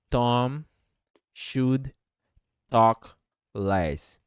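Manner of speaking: slow, one word at a time with gaps; robotic. Shown as a demonstration. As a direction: say each word separately, robotically. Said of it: "fica um pouco robótico falar".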